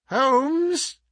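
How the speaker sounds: high calling cry; insistent cry. A narrator's reading. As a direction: call out to wake a sleeper. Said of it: "he cried".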